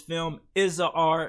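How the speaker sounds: stress placed on the little word a.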